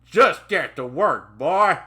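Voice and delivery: loud, slow, forceful command; angry shouted order. Acted. Trainer shoving trainee to the aisle, angry shout. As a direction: stretch it out and shout the last word.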